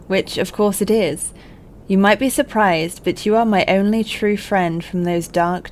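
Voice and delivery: put-on a light, slightly theatrical letter reading, no accent. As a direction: read it out like a friend's heartfelt letter.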